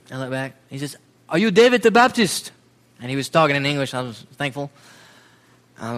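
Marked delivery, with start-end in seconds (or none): 1.3-2.5 a lightly put-on, higher voice for a polite stranger; stranger's voice. Catholic schoolteacher politely asking the missionary, lightly voiced. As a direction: ask it as a shy local teacher would. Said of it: "I'm not gonna do his voice again".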